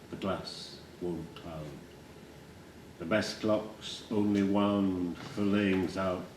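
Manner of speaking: measured poetry reading, fading to hushed; poem recital. Acted. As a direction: recite with weighted pauses, dying away at the end. Recites his own poem.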